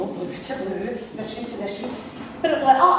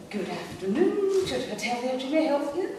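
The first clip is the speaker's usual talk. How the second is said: put-on posh receptionist greeting; posh phone voice; 3 semitones higher, 3 dB quieter than usual. Receptionist answering the hotel phone, rather posh. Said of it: "I decided I'd be rather posh".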